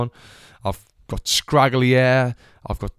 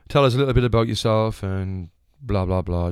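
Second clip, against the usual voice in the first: unenthusiastic; 2 semitones lower than usual. Retold or imitated. Casting man asking for a self-introduction, unenthusiastic. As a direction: rattle off the casting patter with no interest. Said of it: "Just so unenthusiastic".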